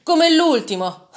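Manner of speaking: loud, high, slow bitter yell; harsh shout. A narrator's reading. A bold buyer heckling the merchant, harsh shout. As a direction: spit it out harshly at the seller. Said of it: "urlò aspramente".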